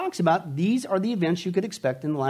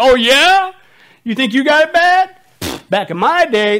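louder, higher mock-parent rant; exasperated parent; 6 semitones higher, 7 dB louder than usual. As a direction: lecture the whiny kids like an outraged dad. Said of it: "The little parental exaggeration".

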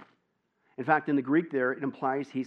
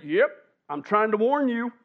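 parrot voice; 7 semitones higher, 7 dB louder than usual. Acted. Parrot answers burglar.

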